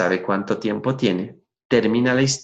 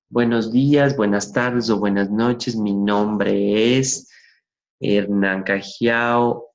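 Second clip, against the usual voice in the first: dull stock greeting; slower than usual. Shown as a demonstration. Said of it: "si usted se para frente al público y dice".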